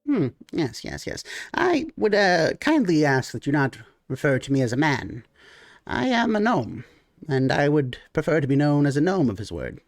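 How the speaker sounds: a gnome politely correcting a slight; gnome character voice. Acted. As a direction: gnome merchant correcting the man who called him a man, prim.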